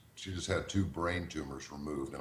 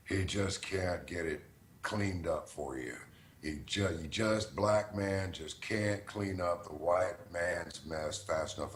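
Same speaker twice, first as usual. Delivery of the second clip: put-on drunk caller; slower than usual. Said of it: "he was saying stuff like".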